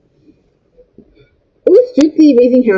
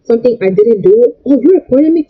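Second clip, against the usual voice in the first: indignant grandmother; 3 semitones higher than usual. Retold or imitated. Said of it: "so the grandmother was like".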